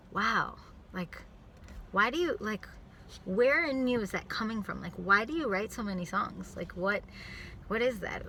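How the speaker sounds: gentle, curious questioning. Retold or imitated. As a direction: ask with genuine interest. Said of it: "let me change my tone".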